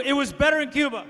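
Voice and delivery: a hint of an old Cuban exile with a Cuban accent, Spanish "pero" rolled. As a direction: nostalgic old Cuban man with a light Cuban accent. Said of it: "Number two".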